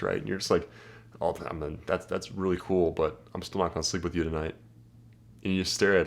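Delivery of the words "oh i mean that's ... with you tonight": softer, dry and unbothered; unimpressed deadpan. Shown as a demonstration. Guy answering a bragging girl, dry and unbothered. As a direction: shrug off her brag calmly. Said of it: "I'll be like this".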